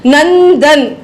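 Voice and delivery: नंदन with a held dental n, then दन; careful two-part नंदन, n sounded fully; n before द. Shown as a demonstration. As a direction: linger on the middle n of नंदन. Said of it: "द से पहले है".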